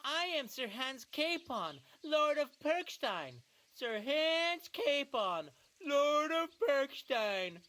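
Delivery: mocking parrot of his title. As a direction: mimic him with scorn. Henry parrots Hans's title.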